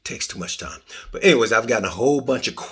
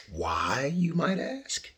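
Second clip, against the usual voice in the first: mock asking; 5 semitones higher, 7 dB quieter, much slower than usual. Mock question to audience.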